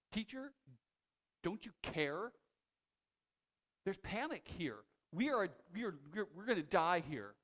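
sharp, accusing plea from scared disciples; a little harsh. Shown as a demonstration. Disciples in the storm demanding Jesus care, harsh and accusing. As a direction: throw it at him like a panicked accusation. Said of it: "You should read that a little harsh".

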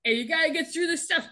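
a hint of a sergeant yelling at recruits; lightly voiced drill sergeant; retold drill yell. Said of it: "he's yelling".

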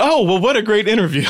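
Tawny impression. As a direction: do a gushy mock impression of the co-host. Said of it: "now we're doing Tawny impressions".

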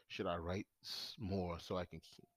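high and slurring; reading while stoned. Real, not acted. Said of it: "I'm high".

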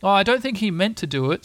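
lifted, well-meaning character voice; placating Pooh. A narrator's reading. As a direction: gently defend a friend. Pooh defends Tigger in story.

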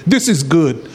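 lightly imitated upbeat pastor; a hint of an always-positive voice; Pastor Richard. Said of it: "it sounded like Pastor Richard".

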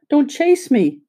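put-on high, frightened cry of a tiny china girl; frightened little voice. A narrator's reading. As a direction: plead in a small scared voice, pitched high. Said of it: "She had such a frightened little voice".

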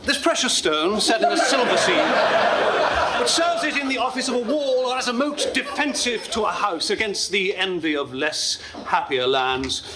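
soaring theatrical Shakespeare recital; grand tragic wailing. Acted. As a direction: declaim it like a grand stage actor. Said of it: "How about Richard the Second?".

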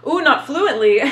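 amused giggle through the phrase; breaking into a laugh while repeating it. Real, not acted. Laughing at the question.

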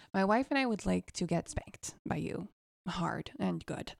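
breathless whispered request. Retold or imitated. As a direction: whisper it nervously.

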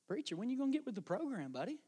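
soft, nagging voice in the head; small inner voice. Acted. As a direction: needle the preacher quietly. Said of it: "comes as a really small voice".

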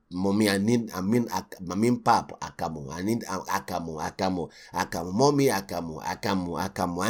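put-on low, whining child asking mommy; mock child pestering for pap; whiny child. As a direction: nag like a small kid. Child whining to mother in story.

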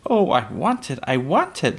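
put-on high, pleading little girl; begging. A narrator's reading. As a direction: plead like a child who badly wants it. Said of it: "Laura begged".

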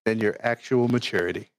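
hushed nature documentary narrator reading. Retold or imitated. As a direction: read it like a calm documentary narrator. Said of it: "I'm gonna use my narrator voice for this".

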